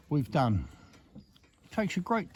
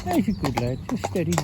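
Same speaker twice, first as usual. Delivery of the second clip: soothing a horse. Real, not acted.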